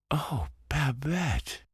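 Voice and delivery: high, slow, crying out. A narrator's reading. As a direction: wail his sister's name. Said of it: "cried he".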